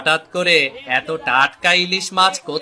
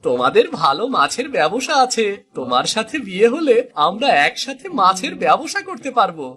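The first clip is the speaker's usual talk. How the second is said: put-on young suitor voice; 6 semitones higher than usual. Suitor voiced by same actor.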